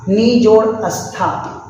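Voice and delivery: नी जोड़ अस्था said slowly, each part apart; slow, split word. Shown as a demonstration. Teacher slowly splitting नी जोड़ अस्था for the class. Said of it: "उदाहरण निष्ठा".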